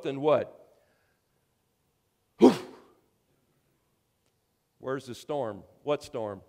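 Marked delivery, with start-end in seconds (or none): 2.4-2.5 short, sharp "whew" of breath; blown-out puff. Acted. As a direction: imitate the storm vanishing in one puff. Imitates storm suddenly stopping.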